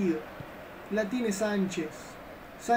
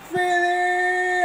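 excited shout; 8 semitones higher, 6 dB louder than usual. Acted. Shot chance in game commentary.

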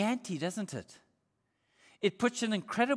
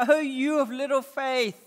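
gentle rebuke; 5 semitones higher, 4 dB louder than usual. Retold or imitated. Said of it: "he rebukes them very gently".

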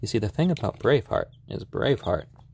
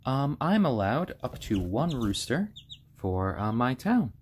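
hoarse voice; 3 semitones higher than usual. Real, not acted. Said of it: "my voice is getting a little bit hoarse".

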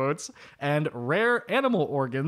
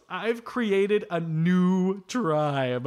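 slow grand quote; 3 semitones higher, much slower than usual. Retold or imitated.

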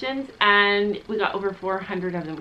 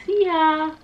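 dismissive goodbye; 7 semitones higher than usual. Retold or imitated. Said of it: "she's like".

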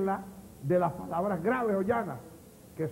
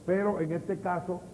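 ordinary delivery

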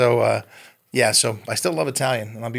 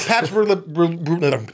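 high, incredulous mock alarm at his son; a retold, hammed-up gasp of disbelief over the beer; shocked dad; 5 semitones higher than usual. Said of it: "I go".

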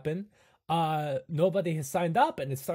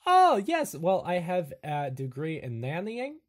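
Igor voice; 3 semitones higher than usual. Acted. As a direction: boast of odd credentials eagerly. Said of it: "he goes".

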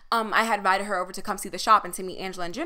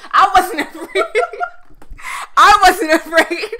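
high, loud protest through laughter; laughing too hard to sound convincing; real laughing; 9 semitones higher, 11 dB louder, slower than usual. Real, not acted. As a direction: insist on it while cracking up. Laughing at her own false claim.

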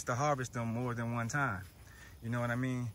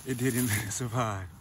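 laughing. Real, not acted. Joking about killing the plant.

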